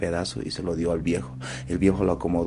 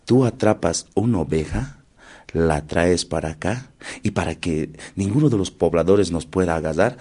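condor voice; 4 dB louder than usual. Acted. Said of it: "Y el cóndor le dice".

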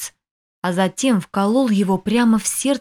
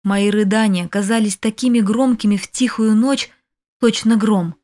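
ordinary delivery, nothing marked

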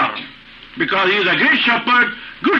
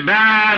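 sheep bleat. Retold or imitated. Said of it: "Sheep is scared and say".

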